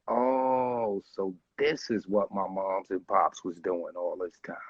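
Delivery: hushed, breathy-free whisper of awe; whispered realization. Retold or imitated. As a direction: whisper it like a secret discovery. Retelling his first high, lying there.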